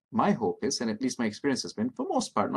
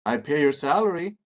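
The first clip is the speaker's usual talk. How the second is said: entitled; 5 semitones higher, 6 dB louder than usual. Pretend. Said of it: "worst entitled patient could say".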